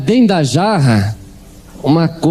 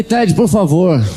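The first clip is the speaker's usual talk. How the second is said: pleading; 4 semitones higher, slower than usual. Retold or imitated. Begging Ted to pray for him.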